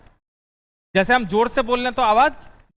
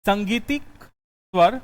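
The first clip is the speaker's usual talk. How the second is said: संगीतिक स्वर drawn out slowly, word by word; slow, careful dictation of संगीतिक स्वर; much slower than usual. Shown as a demonstration. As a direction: spell out संगीतिक स्वर slowly for note-taking. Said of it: "next point लिखना".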